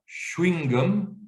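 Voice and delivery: "chewing gum" as "chwing gom", w glide; deliberate "chwing-gom"; second pronunciation variant. Shown as a demonstration. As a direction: run "chewing" into one syllable, "chwing". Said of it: "je pourrais le trouver à".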